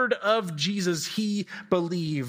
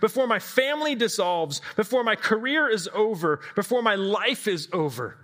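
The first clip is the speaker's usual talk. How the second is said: pleading prayer; 4 semitones higher than usual. Acted. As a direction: beg the Lord as if time is running out. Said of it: "praying this prayer".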